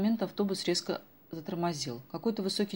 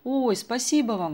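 slow, louder heartfelt thanks; girl thanking the old woman loudly; grateful exclaim; 6 semitones higher, 7 dB louder, slower than usual. A narrator's reading. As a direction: call out thanks warmly. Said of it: "воскликнула Даша".

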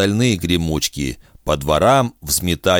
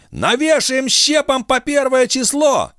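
high, eager shout; gleeful threat. A narrator's reading. Pekin gleefully shouts a threat, high and excited. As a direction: crow it with bloodlust.

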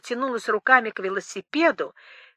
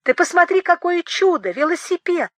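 higher, thrilled exclamation; delighted exclamation; 7 semitones higher, 3 dB louder than usual. Acted. Boris shows Rika the bicycle on the wall, delighted cry. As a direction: marvel at the find.

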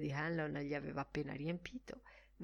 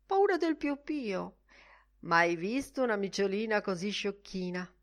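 mocking baby talk; 3 semitones higher, 4 dB louder than usual. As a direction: tease the cat like a silly child. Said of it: "disse canzonatorio". (Bloom prende in giro la gatta con voce da bambino)

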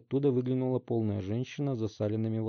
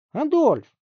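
calling out loud; 11 dB louder than usual. Acted. Mother calls.

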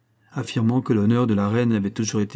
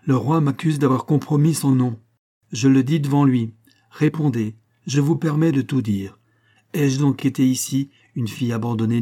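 indignant appeal; 3 semitones higher than usual. Acted. Queen appeals to barons, indignant.

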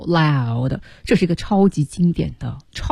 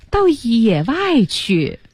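slow, higher-pitched dramatic delivery; drawn-out announcement; 4 semitones higher, much slower than usual. Acted. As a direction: stretch every syllable out grandly. Translating Marty's drawn-out cry.

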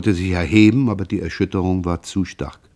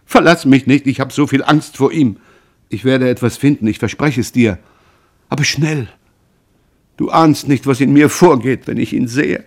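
frightened plea; 5 semitones higher, 6 dB louder than usual. A narrator's reading. Mother pleading in terror.

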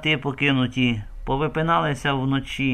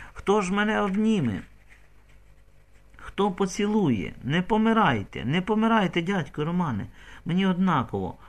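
high, desperate pleading; pleading lament; 7 semitones higher than usual. Acted. Kateryna begging dying Roman not to leave, pleading. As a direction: beg him not to die.

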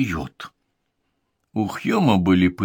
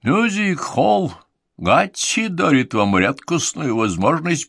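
ringmaster; 7 semitones higher than usual. Acted. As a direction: boom it out like a circus ringmaster. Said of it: "объявил конферансье низким голосом".

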